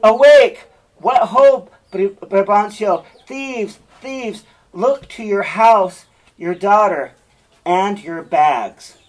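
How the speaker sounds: loud, high shouting of the alarm; shouting up to the window at night to wake the father; alarm cry. Acted. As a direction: rouse the whole house, slowing on the end. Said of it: "And Iago says".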